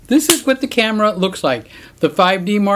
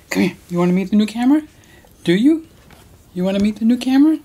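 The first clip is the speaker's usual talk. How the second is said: higher coaxing sing-song; pet talk; 4 semitones higher, much faster than usual. Real, not acted. Inviting the dog to meet the camera, high coaxing pet talk. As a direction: coax the dog over playfully.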